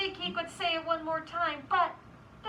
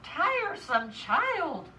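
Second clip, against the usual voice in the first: slow, loud scolding, climbing into the question; storybook mother losing patience; exasperated mother; 5 dB louder, slower than usual. Acted. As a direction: scold the child with impatient emphasis.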